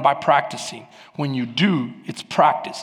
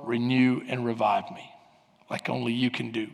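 bedtime prayer. Acted. Preacher handing the day to God at night, praying calmly.

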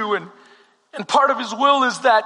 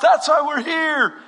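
impatient crowd shout; 3 semitones higher than usual. Acted. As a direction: shout over the auctioneer for the famous paintings. Bidders yelling at the auction.

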